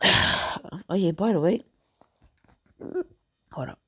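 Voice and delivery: talking through hiccups; speaking between hiccup spasms. Real, not acted. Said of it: "I have the hiccups".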